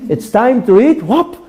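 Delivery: put-on high excited little-kid voice with a laugh; a kid gasping at dinner appearing; delighted child. Child seeing food appear on the table, high delighted laughing voice.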